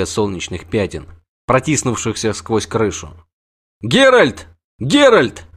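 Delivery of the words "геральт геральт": high, loud calling out; the wounded man greets the witcher; joyful shout. Acted. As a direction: call his name in glad surprise.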